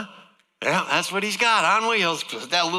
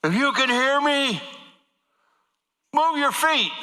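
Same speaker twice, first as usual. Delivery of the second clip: mock doctor yell; 10 semitones higher than usual. Doctor yelling a command into the patient's ear. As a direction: shout it into his ear again. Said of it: "he gets up next to my ear again".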